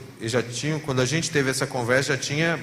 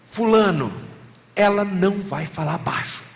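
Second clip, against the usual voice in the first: louder, raised firm telling-off; mildly raised retelling of a blunt warning; a pastor bluntly telling a husband, louder and firm; firm retold warning; 2 semitones higher, 5 dB louder than usual. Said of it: "Teve um dia que eu falei".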